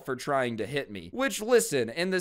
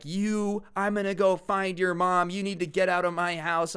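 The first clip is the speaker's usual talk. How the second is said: higher-pitched mock scolding; angry mom; 5 semitones higher than usual. Friend's mom ordering a kid out of her house, angry. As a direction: scold in a raised pitch, short of screaming. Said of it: "She's screaming at me".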